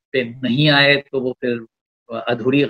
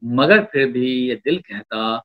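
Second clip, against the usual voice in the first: poetry recitation. Acted. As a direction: lean into each line of verse. Poet recites a couplet.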